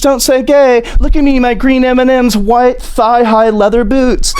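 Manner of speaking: high, silly campaign voice; mock DeSantis. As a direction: parade it in a squeaky show-off voice. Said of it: "Hi, I'm Ron DeSantis".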